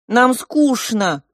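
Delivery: high, loud, slow bored whine; two parrots whining together in the prince's voice. A narrator's reading. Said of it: "голосом самого принца".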